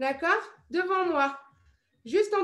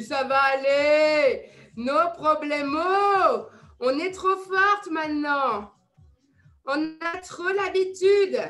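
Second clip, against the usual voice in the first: reassuring; 3 semitones lower, 4 dB louder, slower than usual. Real, not acted. Coach reassuring Nelly about five rounds.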